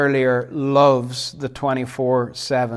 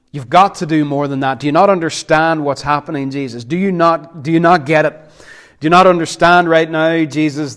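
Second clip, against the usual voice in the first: exasperated protest; 4 dB louder, faster than usual. Acted. Acted exasperated protest to Jesus.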